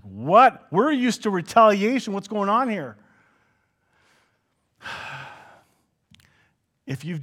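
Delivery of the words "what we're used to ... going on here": mock baffled guards; lightly voiced surprised guards, higher; startled guards. Guards thrown by kindness, mildly baffled. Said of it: "It's like".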